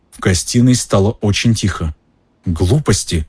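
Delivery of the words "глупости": ordinary delivery, nothing marked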